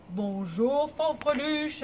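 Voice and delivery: loud, lightly deepened big voice; big deep voice. Shown as a demonstration. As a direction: greet in a mock big low voice. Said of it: "avec ta grosse voix grave". (grosse voix grave et forte)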